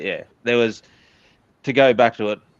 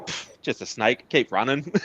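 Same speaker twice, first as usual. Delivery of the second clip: mock nonchalance; 4 semitones higher than usual. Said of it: "I was just like".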